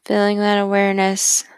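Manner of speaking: calm, even voice, unhurried phrase by phrase; guided meditation. Acted.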